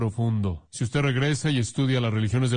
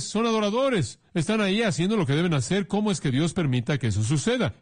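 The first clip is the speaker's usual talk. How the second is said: high, protesting voice; mock the crowd's protest; indignant questioners; 6 semitones higher than usual. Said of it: "La pregunta es". (protesta aguda e indignada)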